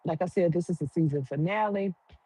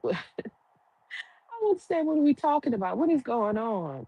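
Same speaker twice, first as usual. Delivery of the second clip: confused laughing disbelief; 5 semitones higher than usual. Retold or imitated. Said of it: "And she's like".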